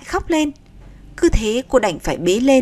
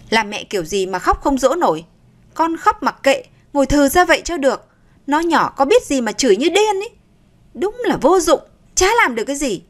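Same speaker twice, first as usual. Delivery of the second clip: scolding mother-in-law; 4 semitones higher than usual. Acted. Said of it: "liếc mắt về phía Nga rồi nói".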